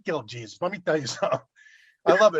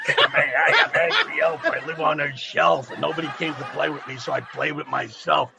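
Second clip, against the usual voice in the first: angry elf voice; 3 semitones lower than usual. Pretend. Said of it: "That little angry bastard".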